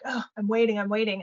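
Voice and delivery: mildly exasperated groan into the words; frustrated. Acted. Coach imitating a frustrated projector stuck waiting, mildly fed up. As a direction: act out being tired of waiting. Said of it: "find yourself getting frustrated".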